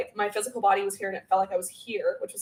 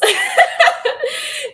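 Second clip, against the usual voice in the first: loud, high-pitched burst of laughter; delighted laugh; 8 dB louder than usual. Real, not acted. Delighted about selenite.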